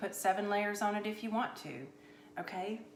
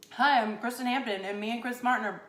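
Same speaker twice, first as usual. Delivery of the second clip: braggy intro; 4 semitones higher, 5 dB louder than usual. Shown as a demonstration. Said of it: "That's, that would be rude".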